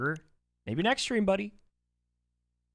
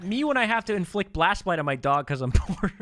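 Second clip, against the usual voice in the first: high, louder raspy-free cartoon mom voice, overexcited; Marge impression; 8 semitones higher, 3 dB louder than usual. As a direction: squeal it like a cartoon mom reading a donation. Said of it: "How was that, guys?".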